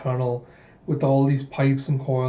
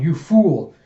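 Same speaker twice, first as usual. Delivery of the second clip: louder, exasperated outburst; acted scolding; 3 semitones higher, 5 dB louder than usual. Bigot scolding Alita for losing the unit, acted anger. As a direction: berate a blundering subordinate.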